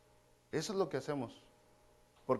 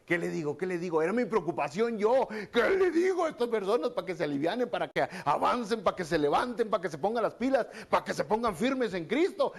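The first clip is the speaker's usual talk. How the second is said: higher, louder, hammed-up fretting with a laugh; frantic, half-laughing what-do-I-say; mock panicked worry; 4 semitones higher, 4 dB louder than usual. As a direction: play your own past panic for laughs. Retelling his own panic.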